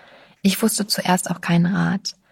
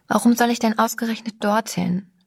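despairing question; 4 semitones higher than usual. Acted. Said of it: "fragte Sabine verzweifelnd".

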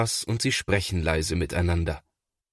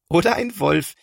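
giggling; 10 semitones higher, 4 dB louder than usual. A narrator's reading. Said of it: "kichert Linus".

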